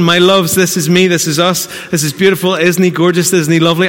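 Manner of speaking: lightly voiced gushing mother; a hint of a proud mum's post; doting new mum. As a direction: coo over the baby photos. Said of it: "I'm not mocking you".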